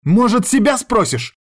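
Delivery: high, loud shout; ex-wife shouting back at him; cried out. Acted. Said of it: "вскричала она".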